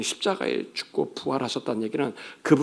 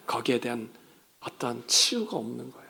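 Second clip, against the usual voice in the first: ordinary delivery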